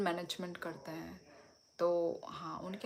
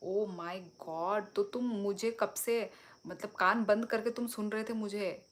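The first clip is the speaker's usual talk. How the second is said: amused disbelief; 2 semitones higher, 5 dB louder than usual. Real, not acted. Realises listener had ears covered.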